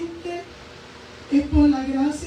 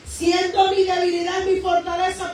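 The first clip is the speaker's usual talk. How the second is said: raised fervent preacher's voice; preached declaration; 3 semitones higher than usual. Acted. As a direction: proclaim it boldly to the congregation. Preaching her bold declaration.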